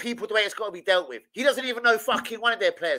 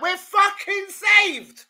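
sarcastic relief; 9 semitones higher, 5 dB louder, much slower than usual. Retold or imitated.

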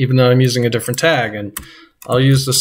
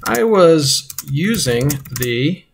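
slow, drawn-out dictation while typing; reading a sentence aloud word by word; 3 semitones higher, much slower than usual. Shown as a demonstration. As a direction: spell it out slowly as you type. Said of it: "so I might say".

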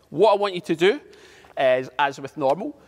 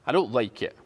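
understated sadness, a little lower; sad; 3 semitones lower than usual. Shown as a demonstration. Drama teacher models the expression for pupils, sad. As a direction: say it with a touch of sadness. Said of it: "say it in a sad way".

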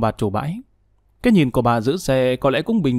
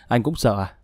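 a light scornful laugh before the question; mocking laugh. Wife laughing mockingly at her condemned husband. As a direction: laugh at him, then ask. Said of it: "Nhung cười to".

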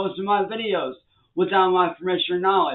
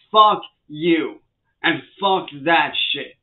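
angry outburst; slower than usual. Real, not acted. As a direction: hurl it at the trolls. Angry rant at trolls.

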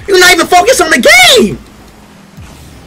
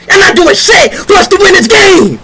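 frustrated yell. Real, not acted. Raging at teammates.

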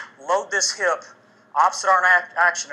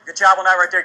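panting after the workout; breathless, catching your breath; 6 dB louder, faster than usual. Real, not acted. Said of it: "I'm out of breath right there".

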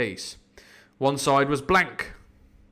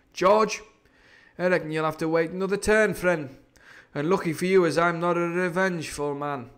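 Silver, gloating pirate; 5 semitones higher than usual. Acted. Silver addresses defeated George.

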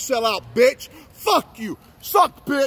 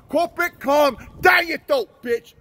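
slow angry shout; 4 semitones higher than usual. Real, not acted. Cussing out police officers.

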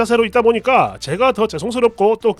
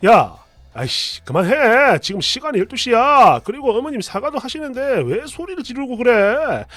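exasperated husband. Retold or imitated. Husband tells wife to stop shouting, mildly exasperated. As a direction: tell her off without really yelling.

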